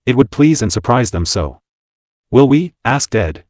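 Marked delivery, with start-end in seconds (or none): 2.3-2.7 persuasive. A narrator's reading. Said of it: "in that persuasive voice of his".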